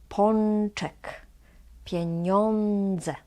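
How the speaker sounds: Pączek, pieniądze with ą as "on", tongue near the palate. Shown as a demonstration. Teacher repeats after explaining tongue position, n near palate. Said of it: "closer to your".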